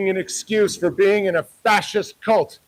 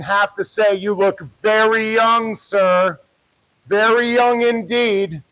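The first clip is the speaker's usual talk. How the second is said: mock politeness. Real, not acted. Mock-polite taunting of staff member.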